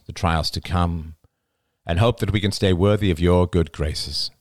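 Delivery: projected, measured prayer; solemn grace. A narrator's reading. Oliver's father saying grace before dessert, solemn prayer. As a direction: pray aloud in deliberate phrases.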